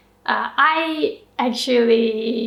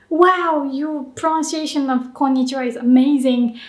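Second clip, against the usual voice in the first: impressed listener. Acted. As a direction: gush lightly as an impressed native speaker. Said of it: "the Japanese people are like".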